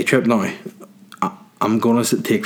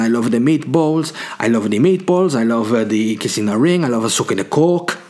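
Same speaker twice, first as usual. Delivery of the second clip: Italian mafia matriarch. Pretend. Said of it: "I'm going more Italian as I go on".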